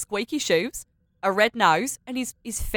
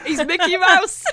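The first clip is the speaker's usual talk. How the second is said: high laughing squeal; 10 semitones higher, 7 dB louder than usual. Real, not acted. Player laughing at GM's clown voice. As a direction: giggle it out high.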